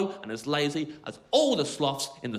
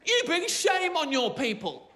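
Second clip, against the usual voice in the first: high, slow mock goose shout; goose yelling; 11 semitones higher, slower than usual. Goose yells at sloth to shame it, high and slow. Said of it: "the goose yelled up at the sloth".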